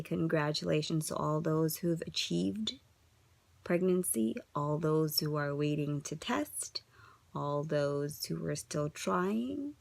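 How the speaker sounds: soft, slow whisper of support; soft, slow encouragement. Real, not acted. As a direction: speak gently to those still waiting. Gentle closing wishes.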